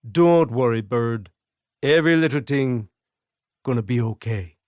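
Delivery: put-on passable Jamaican accent, sing-song lilt. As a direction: Jamaican accent quoting a reggae line. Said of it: "In a passable Jamaican accent".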